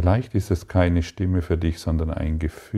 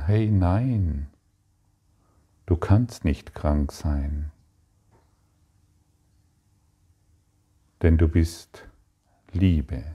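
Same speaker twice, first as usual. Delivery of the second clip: gentle inner voice; slower than usual. Pretend. Inner voice reminds the listener of wholeness, tenderly. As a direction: let the loving inner voice reassure you. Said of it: "höre die sanfte Stimme".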